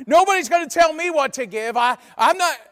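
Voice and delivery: loud, high-pitched blustering protest; mock outrage, sputtering and loud; mock indignant outburst. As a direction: play an offended objector, hammed up. Mocks an indignant giver's outburst.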